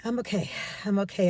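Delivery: quick mock self-reassurance; holding back tears. Client about to cry reassures the therapist, acted holding back tears. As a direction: imitate someone hurriedly insisting they are fine. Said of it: "I can see they're gonna cry".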